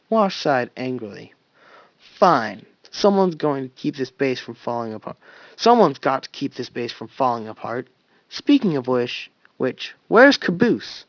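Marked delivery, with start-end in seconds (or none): 2.0-11.0 annoyed. Acted. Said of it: "Wash said, annoyed".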